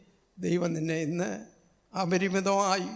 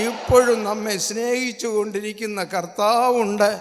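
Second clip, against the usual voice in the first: building, ever louder litany of praise; preaching at full force; 4 dB louder than usual. Acted. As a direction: rise to a ringing shout on കർത്താവുണ്ട്. (കർത്താവുണ്ട് എന്ന് ഉറക്കെ ഉയർത്തി പ്രസംഗിക്കുക)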